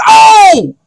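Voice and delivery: high loud startled oh; husband realising it's a nosebleed; sudden realisation. Retold or imitated. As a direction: gasp as it clicks.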